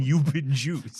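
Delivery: loud, drawn-out imitation of a prankster; mock yelled catchphrase. Host mocks an acquitted man yelling his catchphrase, drawn-out mock yell. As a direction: yell it slowly as a prank reveal. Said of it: "now he's yelling".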